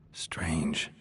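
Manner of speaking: breathy whisper to himself. Acted. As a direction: whisper it as you puzzle. Investigator muses over clue.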